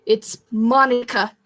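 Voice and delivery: growling demand to turn around; growled. Acted. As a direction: growl it like a stern order. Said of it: "I growled".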